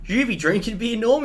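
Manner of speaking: a lightly voiced old man asking his mate. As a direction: ask like a pub regular. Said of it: "the guy's like".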